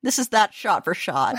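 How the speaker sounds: laughing. Real, not acted. Laughing at the shot match.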